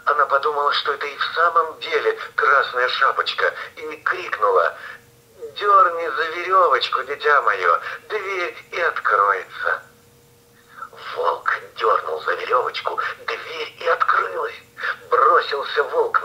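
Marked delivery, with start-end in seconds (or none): 5.6-9.8 grandmother voice. Acted. Sick grandmother calls out.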